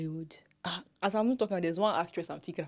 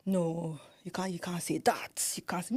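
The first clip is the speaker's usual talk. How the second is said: hushed, half-whispered correction; whispered protest; 3 dB quieter than usual. Retold or imitated. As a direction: mutter the objection under breath. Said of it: "I'll be like".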